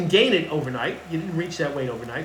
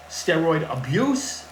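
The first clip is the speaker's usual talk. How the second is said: "abuse" stretched out slowly for emphasis; slow, deliberate weight on "abuse"; stress on ABUSE; slower than usual. Real, not acted. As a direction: lean hard on the word "abuse". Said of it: "emphasize the word abuse".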